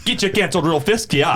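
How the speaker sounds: put-on light Minnesota accent, laughing. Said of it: "Go full Minnesota accent".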